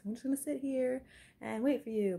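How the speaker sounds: child who won't budge, lightly voiced; mimicking stubborn child. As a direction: play the five-year-old digging in. Voicing daughter's stubborn reply.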